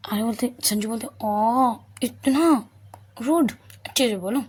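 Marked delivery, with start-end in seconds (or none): 1.2-4.4 mock offended. Sanju mock offended at goodnight.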